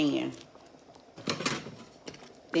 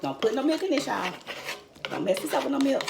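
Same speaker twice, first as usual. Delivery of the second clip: emphatic warning; 9 semitones higher, faster than usual. Real, not acted. Warning viewers off adding milk.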